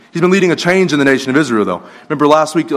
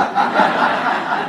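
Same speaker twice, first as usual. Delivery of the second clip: laughing; 4 dB quieter than usual. Real, not acted. Laughing at own punchline.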